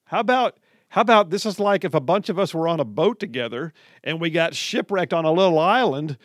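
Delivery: lightly voiced loud rant; ranting guy. Host retells a Twitter ranter's loud rant. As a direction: build the ranter's argument with heat. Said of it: "He said".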